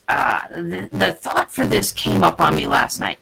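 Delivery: glitchy bitcrushed digital voice; robotic sound. Real, not acted. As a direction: voice breaking up like a bad stream. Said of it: "You sound robotic".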